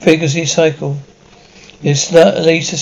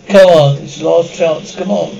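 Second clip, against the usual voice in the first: urgent shout. Acted. Urging escape.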